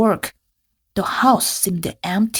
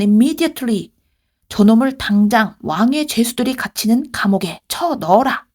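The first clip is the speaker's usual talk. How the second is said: mildly raised, acted anger; furious; much faster than usual. Master orders Joseph to prison, mock furious. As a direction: order the guards with a stern master's heat.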